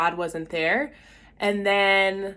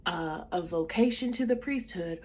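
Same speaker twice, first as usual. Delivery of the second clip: put-on strong Southern accent; 2 semitones higher, 4 dB quieter than usual. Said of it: "he had a strong Southern accent".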